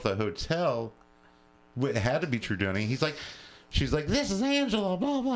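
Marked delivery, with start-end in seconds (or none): 4.1-5.3 high, mock Italian-accented phone voice; caricatured Italian accent, pitched up. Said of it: "she's got this very, uh, heavy Italiano accent".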